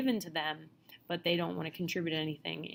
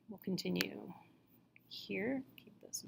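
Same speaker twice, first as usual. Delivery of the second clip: softer, breathy aside to herself, barely voiced; whispered aside; 7 dB quieter than usual. Real, not acted. Teacher reminding herself to hurry through the slides, in a whispered aside. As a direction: mutter a reminder under your breath to keep going. Aside to self while moving on.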